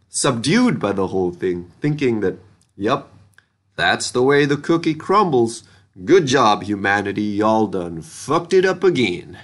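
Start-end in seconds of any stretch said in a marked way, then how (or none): 2.7-9.4 a light Southern drawl, resigned; Southern drawl Martian accent. Retold or imitated. Reviewer mimics a Mars colonist in a light Southern drawl. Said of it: "best impression of a Mariner Valley Southern drawl Martian accent".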